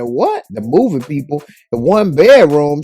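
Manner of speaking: can't believe what he's hearing; shocked disbelief. Retold or imitated. Emmett learns his mom is moving out, shocked.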